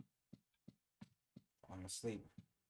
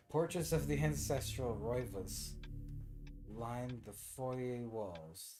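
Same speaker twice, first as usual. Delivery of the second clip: dramatic reading; 3 semitones higher, 5 dB louder, much slower than usual. Shown as a demonstration. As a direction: read it like the game's narrator. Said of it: "oh, sorry. I see".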